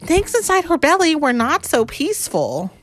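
lively picture-book narration; expressive read-aloud with a swinging tune; story reading to children. A narrator's reading.

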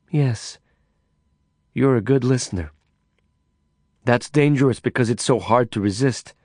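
a hint of a seductive foreign woman; Carla, knowing. Carla's voice held.

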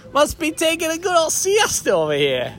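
high, lightly mocking listener voice; imagined listener. Listeners teasing James about a siesta, high mocking voice. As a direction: tease James as a lazy napper. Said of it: "they'll be like".

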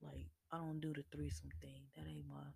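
whispered, half under the breath; hushed refusal. Retold or imitated. To a married couple asking for a threesome, whispered refusal. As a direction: let it out as a soft secretive aside.

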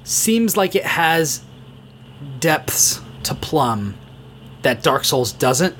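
smiling. Real, not acted. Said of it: "I don't know if you guys can hear the smile on my face".

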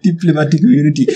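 put-on quick South African accent, on the edge of laughter. Player using the key phrase, amused South African accent. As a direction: launch into South African, fighting giggles. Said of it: "South African accent".

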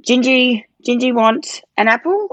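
cooing to a baby in third person, mocked; baby talk. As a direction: imitate people talking down to a toddler. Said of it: "speak to her like she's a baby or a toddler".

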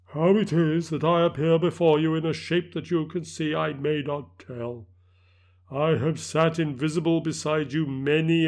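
grave, measured spectral warning; solemn ghost voice. Acted. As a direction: warn him gravely. Ghost warns Scrooge.

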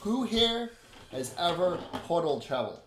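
high, loud, eager question; lively and in charge; upbeat portal guide character. Acted. Game master plays Alyssa.

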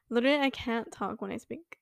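stoned, half laughing; high and fumbling words. Real, not acted. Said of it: "I do be baked right now".

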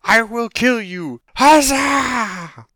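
high, loud, drawn-out heroic proclamation; hammed-up fantasy hero; gung-ho adventurer. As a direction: declaim it like a cartoon champion. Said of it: "the guy like".

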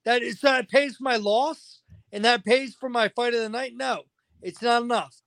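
venting hot frustration about the pay; heated. Real, not acted. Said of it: "I'm just so heated".

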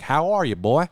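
put-on Southern accent. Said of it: "unless it's like a Southern film".

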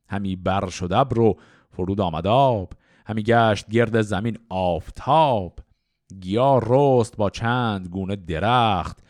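slow, measured Persian verse, rhymes drawn out; slow, metrical Shahnameh recital; epic poetry recitation. Acted. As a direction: recite classical verse in stately metre, line by line.

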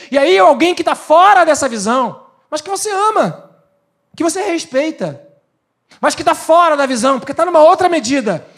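high, loud pulpit preaching; preaching at full force. Acted. Pastor warning the congregation, preaching loud. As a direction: drive the point home to the church.

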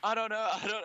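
put-on Irish accent. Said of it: "I gotta say boyo to get in".

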